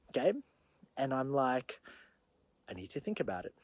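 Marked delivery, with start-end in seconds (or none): 2.7-3.6 low, soft and unsure; quiet and hesitant. Retold or imitated. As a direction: murmur it, holding back. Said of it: "Like, legitimately".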